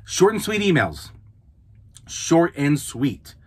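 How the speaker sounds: "Short" and "sweet" hit slow and firm; slow emphatic "Short and sweet"; stress on short and sweet. Shown as a demonstration. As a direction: drive home "Short and sweet" slowly. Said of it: "stressed slogan".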